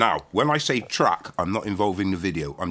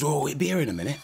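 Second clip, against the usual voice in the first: higher voice for a retold woman; imitated hostess; 7 semitones higher, faster than usual. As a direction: play the hostess reassuring a visitor. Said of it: "She goes".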